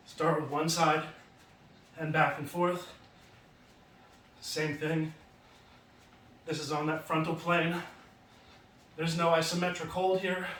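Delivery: winded from the wacky jacks; out of breath. Real, not acted. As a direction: talk while panting between reps. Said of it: "I'm getting out of breath here".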